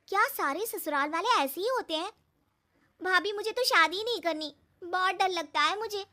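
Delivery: put-on a worried young girl blurting out her fears to her bhabhi; anxious young sister-in-law. Narrator voices scared Simmi.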